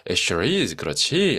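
hint of a silly zebra agreeing; mock zebra voice. Teacher acting the zebra's reply, mild cartoon zebra voice. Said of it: "자기 제브라의 목소리로".

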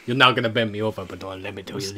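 Arnold Schwarzenegger impression. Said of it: "Arnold Schwarzenegger".

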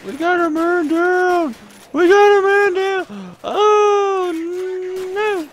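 high, loud soldier yell; man down shout. Pretend. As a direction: bellow like a soldier under fire. Soldier-style call mid game.

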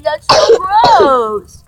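mock crying. Friend coughing on screen again.

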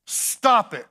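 preacher hollering stop it; shouted command. Acted.

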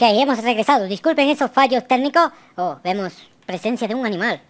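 ordinary delivery

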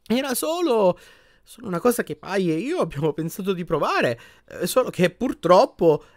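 high, halting explanation; nervous pleading. A narrator's reading. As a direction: stumble through an awkward confession, stretching words. Husband nervously explains to angry wife.

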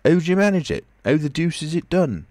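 high, loud and astonished; a tramp gasping in disbelief at a marvel; amazed. A narrator's reading. Marvel asking the invisible man, high and amazed. Marvel asks how it's done.

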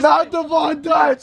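high, drawn-out squealing cry; shrieked dismay. Real, not acted. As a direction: shriek it, stretching every word. Mock horror over a hat.

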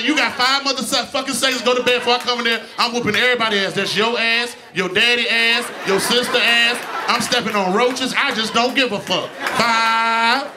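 a hint of an angry mother counting down; mama's gangster countdown. Mother counting down at kids to bed, mock angry. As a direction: bark the numbers like a mama losing patience. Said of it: "your mama do the gangster countdown".

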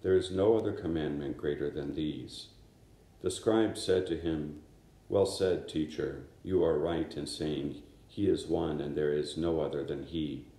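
a priest reading the Gospel aloud at Mass. Acted. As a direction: proclaim it to the congregation, unhurried and clear.

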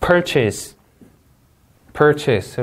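"Purchase" with stress on PUR, weak falling ending; stress demo. Shown as a demonstration. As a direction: punch PUR and let "-chase" shrink to an s sound. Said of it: "우리 강세 주의하고".

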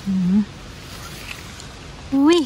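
ordinary talk, nothing marked

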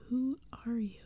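small frightened whispered question; scared kid calling to the monsters, tiny voice; high and tiny. Acted. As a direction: call out but barely find a voice. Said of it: "My voice came out high and tiny".

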